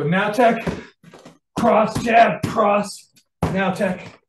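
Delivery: loud strike-by-strike count; calling out moves. Shown as a demonstration. Instructor showing the three straights, calling them out loudly. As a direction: call the strikes out with force. Calls out combination while demonstrating.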